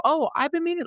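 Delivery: lightly mock a nosy neighbour; high, eager stranger voice; curious stranger. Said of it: "and people would go".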